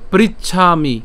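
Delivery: "পৃচ্ছামি" split as prich-chhami; emphatic teacher's "পৃচ্ছামি", prich-chhami; split pronunciation. Shown as a demonstration. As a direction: close on the ch, then release chhami in "পৃচ্ছামি". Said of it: "চ পর্যন্ত উচ্চারণ করলাম".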